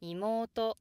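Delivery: 妹 rises after the first sound and stays high; accent at the end. Shown as a demonstration. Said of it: "downstep only when something else follows".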